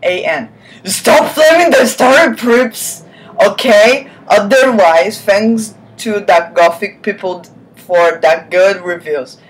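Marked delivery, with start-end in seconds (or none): 0.8-4.1 mocking whiny author. Reads the author's note mockingly.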